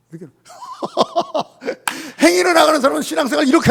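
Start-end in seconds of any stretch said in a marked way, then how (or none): 0.5-2.1 high burst of laughter. Real, not acted. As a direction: laugh at his own joke. Preacher laughs at the example. (높게 터지는 웃음)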